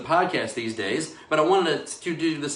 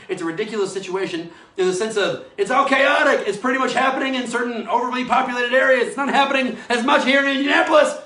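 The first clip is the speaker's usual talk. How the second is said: worked-up rant; 6 semitones higher than usual. Real, not acted. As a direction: keep venting, voice rising to a peak. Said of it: "so I can get like that".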